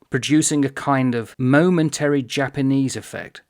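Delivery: measured, emphatic read-aloud; slow reading. Shown as a demonstration. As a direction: set out each word carefully. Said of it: "but slowly".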